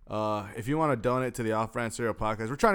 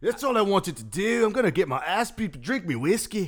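high, loud hammed-up Irish brogue; Irish accent; 8 semitones higher, 5 dB louder than usual. Host playing McGregor demanding whiskey, loud mock Irish. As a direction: goad like a drunk Irish brawler. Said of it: "should I be McGregor".

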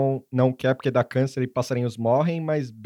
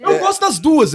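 laughing, much higher; 12 semitones higher, 5 dB louder than usual. Real, not acted. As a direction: giggle it out. Laughing confession.

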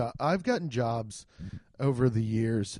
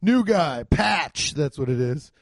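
bossy call to the new guy, pitched up; mock biker boss; 4 semitones higher, 4 dB louder, slower than usual. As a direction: order the rookie over, drawn out.

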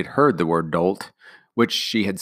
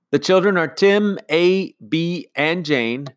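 higher, calling down the street; calling back; 10 semitones higher, 7 dB louder, slower than usual. A narrator's reading. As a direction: call the names back loudly. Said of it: "she called back".

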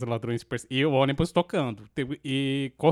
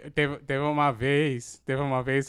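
over enunciating. Shown as a demonstration. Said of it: "falando bem pausadamente".

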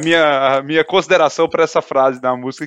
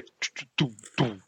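drum imitation; 5 semitones lower, 12 dB quieter than usual. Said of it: "só vem a bateria".

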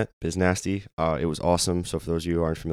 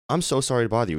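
retold fan's apology, pitched up; higher-voiced, starstruck sorry; flustered apology; 7 semitones higher, faster than usual. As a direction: act out apologizing to a star.

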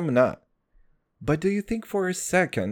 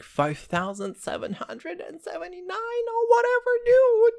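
rising mock disbelief. Mocking Jewish calendar year.

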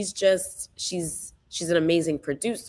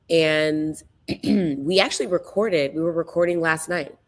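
hoarse. Real, not acted. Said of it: "I have no voice".

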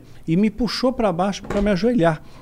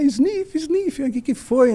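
high, slow, hammed-up sniffles through the words; mock sniffling wife; 9 semitones higher, much slower than usual. Imitating his teary wife as she walks up sniffling. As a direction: play the wife pretending to sob, sniff sniff. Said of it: "meio que chorando".

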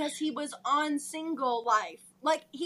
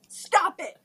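firm stop; 6 dB louder than usual. Acted. Acted quarrel, Ed pleading.

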